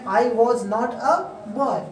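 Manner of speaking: Indian-style English, "was not" as two full words. Shown as a demonstration. Teacher shows students Indian style, Indian-style demo. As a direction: read it Indian-style, pausing before "boy". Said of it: "यह हुआ Indian style में".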